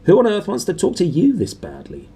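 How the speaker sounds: a hint of a gawping, astonished boy; Dudley amazed. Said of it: "switched my brain on".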